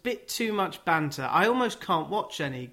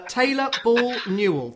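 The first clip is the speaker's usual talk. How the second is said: names read out in a light Geordie lilt, higher and louder; Newcastle accent; 8 semitones higher, 5 dB louder than usual. Pretend. Podcast host lists old players in a Geordie accent. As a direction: rattle off the names like a Newcastle fan. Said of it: "I did it in a Newcastle accent".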